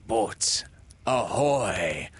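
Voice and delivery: ringing hail across the lagoon; the captain calls his boat; Hook hailing. Acted. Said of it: "rang over the lagoon in Hook's voice".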